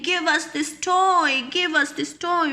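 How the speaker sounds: put-on high begging kids; children begging. Children pleading for the clean toy, pitched high. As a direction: beg with open hands.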